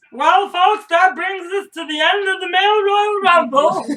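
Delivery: high, loud, hammed-up announcer voice. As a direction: boom it out like a ring announcer. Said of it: "That was my announcer voice".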